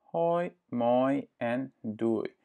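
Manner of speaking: hoi, moi en doei said slowly, each oi and oei clearly rounded; teacher models greetings for the learner; slow Dutch greetings. Shown as a demonstration. Slow, careful Dutch model. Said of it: "Ça, c'est pour saluer".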